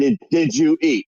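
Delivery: "did you eat" blended as did-ju-eat; Wisconsin pronunciation. Shown as a demonstration. Demonstrating what Wisconsinites really say, local pronunciation. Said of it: "we say".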